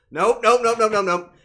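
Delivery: loud, high string of rejections; emphatic refusal. Real, not acted. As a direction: shut the request down loudly and insistently. Refusing chat's request to raise leg.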